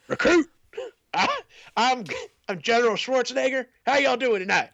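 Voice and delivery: high, twangy hick general. Retold or imitated. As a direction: play a goofy country general. Mocking the general's voice.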